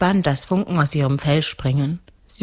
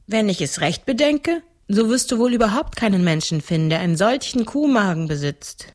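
put-on seven-year-old girl; 5 semitones higher than usual.

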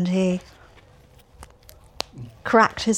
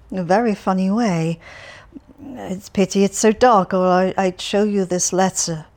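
cheerful Alferov; faster than usual. Acted. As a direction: prattle on brightly to a stranger. Alferov about the letter.

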